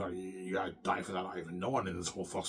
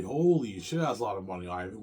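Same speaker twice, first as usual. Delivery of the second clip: amazed exclamation; 4 dB louder than usual. Retold or imitated. Girl amazed at money.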